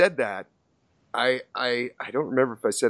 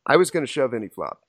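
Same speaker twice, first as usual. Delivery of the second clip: brisk, matter-of-fact statement; faster than usual. Retold or imitated. Opponent explaining his all-in to the player, matter-of-fact. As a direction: state it quickly, as simple fact. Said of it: "kind of in a matter-of-fact voice".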